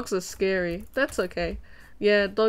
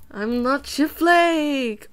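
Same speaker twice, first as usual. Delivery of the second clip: laughing denial; 4 semitones higher, 3 dB louder, much slower than usual. Pretend. Denies being Chip Flake again.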